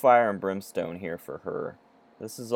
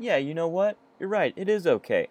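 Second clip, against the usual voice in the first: mock agreement; 7 semitones higher than usual. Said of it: "they're like".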